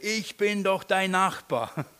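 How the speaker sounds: mock neighbour shout. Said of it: "ich ihn schreien höre".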